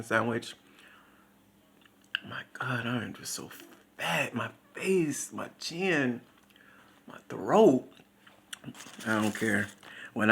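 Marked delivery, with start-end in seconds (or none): 2.3-7.9 soft, breathy whispered aside; whispered confession. Real, not acted. To the viewers, a soft whispered aside. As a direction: confess it under your breath.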